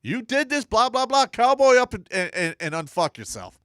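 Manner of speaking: loud, high drill-sergeant bark; half-shouted order to handle it; tough-love yell. Retold or imitated. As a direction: yell it at a whining soldier. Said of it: "look him in the face and go".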